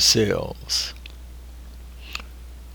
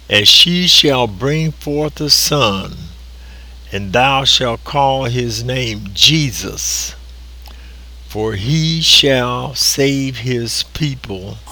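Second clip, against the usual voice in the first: solemn scripture quote; slower than usual. Acted. Preacher quoting the angel.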